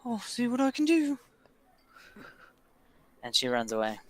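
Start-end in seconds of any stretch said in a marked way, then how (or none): 0.1-1.2 put-on high-pitched little servant girl; small, high child's voice. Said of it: "That was my little girl voice".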